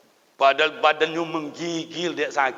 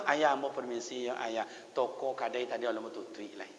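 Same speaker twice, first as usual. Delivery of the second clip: soft, lowered polite leave-taking; hushed excuse; 4 semitones lower, 9 dB quieter than usual. Acted. Younger sibling leaving father to close the shop, hushed excuse. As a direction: trail quietly through a polite excuse.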